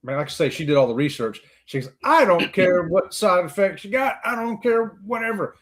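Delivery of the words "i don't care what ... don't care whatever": retold insistence, drawn out slowly; insistent. Partner dismissing side effects, insistent in the retelling. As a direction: stretch it out, brushing objections aside.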